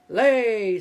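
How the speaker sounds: loud booming order; giant's command. Acted. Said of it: "said the giant to the hen".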